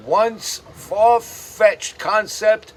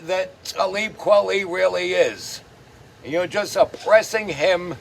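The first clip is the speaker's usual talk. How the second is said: mocking a rapper; 2 semitones higher than usual. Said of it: "what if Talib Kweli says it's green".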